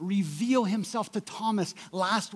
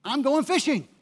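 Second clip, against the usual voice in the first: louder announcement; 5 semitones higher, 4 dB louder than usual. Retold or imitated. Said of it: "Peter in verse three says".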